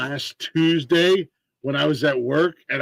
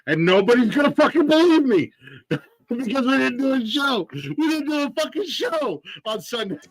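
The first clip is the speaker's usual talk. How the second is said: laughing; 9 semitones higher than usual. Real, not acted. Laughing disbelief at own luck.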